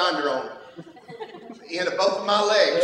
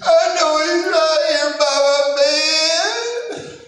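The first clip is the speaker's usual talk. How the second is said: put-on much higher, slow sing-song child; little girl voice; 10 semitones higher, 7 dB louder, much slower than usual. Daughter telling her dad Jesus is by her bed, high sing-song child. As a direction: sing it like a small child reassuring herself. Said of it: "She said".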